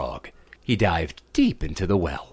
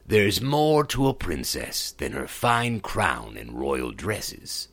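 calm frog; 3 semitones lower, slower than usual. Acted. Frog echoes princess, calmly.

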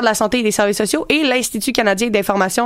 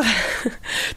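short laugh; 8 dB quieter than usual. Real, not acted. Bursts out laughing mid-sentence.

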